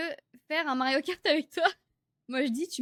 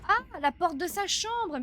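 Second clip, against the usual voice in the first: slow, drawn-out realization, louder; dawning exasperation; 7 semitones higher, 5 dB louder, slower than usual. Real, not acted. Gamer realizing he locked only his bedroom door, drawn-out exasperation. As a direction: stretch it out as it finally clicks.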